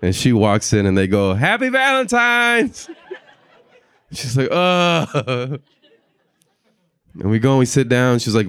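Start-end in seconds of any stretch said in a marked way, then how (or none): 1.3-2.9 group greeting. Retold or imitated. Eight dudes greet her. 4.5-5.6 stunned. Retold or imitated. Date stunned by the dudes.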